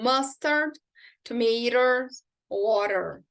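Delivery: "mustard", "tomatoes", "water" with the stressed syllable leaned on; marked word stress. Shown as a demonstration. Teacher showing where stress falls in "mustard", "tomatoes", "water". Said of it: "Onde você precisa colocar a entonação".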